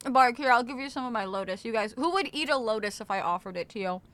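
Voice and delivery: eating while talking; crunching chips. Real, not acted. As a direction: talk through a crunchy bite. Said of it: "sorry for the crunch A S M R".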